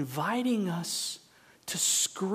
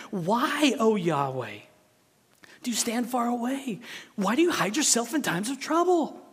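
raised, questioning cry to God; pleading psalm; 5 semitones higher, 3 dB louder than usual. Acted. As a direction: read it as an urgent complaint. Preacher reads psalm of protest.

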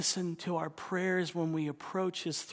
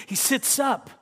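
lively; 10 semitones higher, 6 dB louder than usual. Acted. God roused by pain.

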